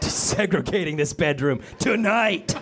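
hammed-up creepy lover; creepy bedroom voice. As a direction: purr it slowly like a creep in bed. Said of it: "the creepiest thing you can say in bed".

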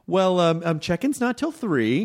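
slow, falsely pleasant customer-service refusal; mock-polite brush-off; unsympathetic smiling clerk. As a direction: imitate a clerk with a big smile and no sympathy. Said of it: "very unsympathetic with that big smile".

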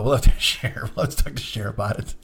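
usual speaking voice

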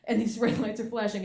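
ordinary delivery

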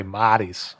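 Boston-accented "Marty's"; local Boston accent. Shown as a demonstration. Host correcting guest on a shop's name, local Boston accent. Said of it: "that's how they said it".

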